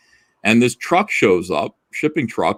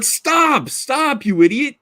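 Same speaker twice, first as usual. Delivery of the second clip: retold yell; 14 semitones higher, slower than usual. Yelling at driver tearing driveway.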